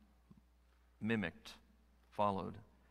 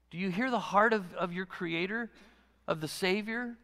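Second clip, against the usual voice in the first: voice of God; 7 semitones higher than usual. Acted. Preacher voicing God's call, far timbre.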